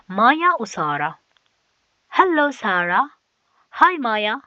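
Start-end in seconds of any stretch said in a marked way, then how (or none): 2.1-3.1 voicing Maya. Reading Maya's dialogue line. 3.7-4.4 voicing Sara. Reading Sara's dialogue line.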